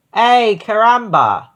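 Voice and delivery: high, loud, drawn-out cry; startled shriek. Acted. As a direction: shriek it out slowly in alarm. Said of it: "the goats shrieked".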